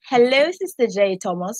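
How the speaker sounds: British-accented hello; lightly performed British English, lifting at the end. Shown as a demonstration. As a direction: greet her in a British accent. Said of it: "start it out in the British accent".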